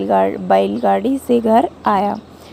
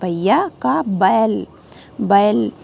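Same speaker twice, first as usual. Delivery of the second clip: slow, every word spelled out; slow teaching pronunciation; slow clear sounding out; slower than usual. Shown as a demonstration. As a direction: sound out each word slowly. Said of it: "दो मात्रा".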